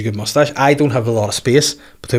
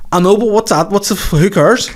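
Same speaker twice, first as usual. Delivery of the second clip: mimicked gig-goer; 9 semitones higher than usual. Imitating a guy moaning to his mate after the gig, mock protest. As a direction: pitch it way up as an indignant punter.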